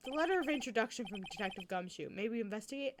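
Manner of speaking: attempted detective's accent; lightly voiced police detective accent; Gumshoe. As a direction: slip into another character's accent by mistake. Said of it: "Gumshoe's accent instead of a southern accent".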